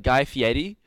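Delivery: Fieri said "fee-ED-ee". Shown as a demonstration. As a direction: turn the r of Fieri into a d. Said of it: "He says it with a D".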